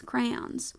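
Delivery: crayons as CRAY-ONS, softly; two-syllable crayons. Shown as a demonstration. Reading teacher putting the two vowels together, crayons in two syllables. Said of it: "it should have two syllables".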